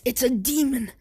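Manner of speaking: mock frightened doctor's yell; panicked yelling doctor. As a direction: cry out to burn the creature. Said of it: "the doctor ... says".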